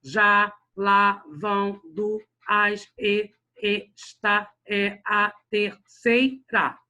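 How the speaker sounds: every syllable on its own, slow and detached, a gap after each. Shown as a demonstration. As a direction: chop the verse into separate syllables, "Já, lá, vão, do, as". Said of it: "Separar a sílaba normalmente".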